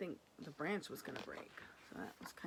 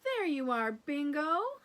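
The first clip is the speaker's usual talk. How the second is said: louder, happy call; shouting; 6 semitones higher, 9 dB louder than usual. Acted. Lulu shouting happily at the found dog. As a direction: greet the dog with a glad shout. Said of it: "she shouts".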